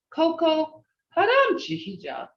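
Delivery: mean every word of it; heartfelt. Shown as a demonstration. Teacher showing the heartfelt Muskogee goodbye to Coco. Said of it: "that difference is in tone?".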